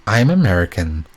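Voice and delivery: shaky try at an American accent. Shown as a demonstration. Proving she can do an American accent, a shaky try at American accent. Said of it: "Now I've gotta prove that I can do one".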